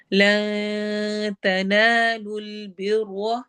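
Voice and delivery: slow, drawn-out tajweed chant; Quran recitation. Shown as a demonstration. Teacher recites verse for students, slow tajweed chant. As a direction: recite it slowly, stretching each sound. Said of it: "ला में इख्फा करेंगे".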